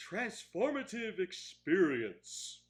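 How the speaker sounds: slow, deliberate enunciation; drawn-out quote. Retold or imitated. Reviewer quoting the film's unsubtle line, slow and deliberate. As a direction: spell out the grand phrase slowly.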